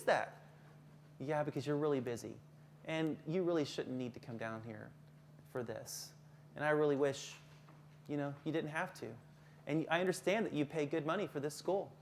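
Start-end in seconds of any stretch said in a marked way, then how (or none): 1.2-11.9 soft, low, empathetic teacher; understanding, placating tone; lowered voice. Shown as a demonstration. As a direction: soothe an upset parent in a hushed, lower voice. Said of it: "Again, you lower your voice".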